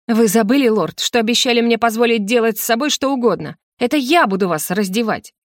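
игривое торжество; объяви мужу свою власть над ним; коварно. Acted. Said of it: "коварно фыркнула". (коварно и игриво)

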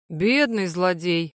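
slow sighing pity; sympathetic sigh. Acted. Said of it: "сочувственно вздохнул".

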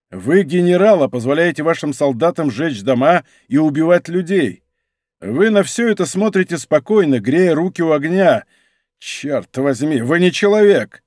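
mildly indignant reproach; hostile. Acted. D'Artagnan reproaching Monk for the fire, mild hostility. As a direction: scold the general, understated anger. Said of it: "враждебно взглянув на него".

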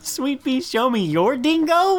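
put-on high, uncertain Australian accent; attempted Australian accent. Co-host fumbling the dingo line, high shaky-accurate Australian accent.

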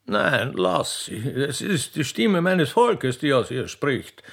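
slow, benevolent emperor; gracious. Acted. Emperor sparing the widow, slow and gracious. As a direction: speak with fatherly magnanimity. Emperor magnanimously spares her.

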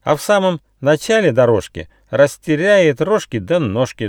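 very high, loud cackle into jeering rhyme; shrill, hammed-up bird taunt; shrieking kookaburra. A narrator's reading. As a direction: screech mockingly like a laughing bird. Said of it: "закричала Кукабура".

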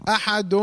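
احد ending in a sustained "um"; nun turned to meem. Shown as a demonstration. Teacher showing what changed in احد, final nun as held meem. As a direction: finish احد on a hummed m in place of n. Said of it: "قلبت النون لميم".

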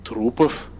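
«Трупов» asked with a rising disbelieving tune; disbelieving question. Acted. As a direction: repeat «Трупов» as a stunned question. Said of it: "Не поверил своим ушам".

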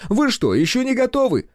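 high, loud impatient demand; irate demand. A narrator's reading. Director demanding whether the set is ready, high angry call. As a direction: bark the question at the crew.

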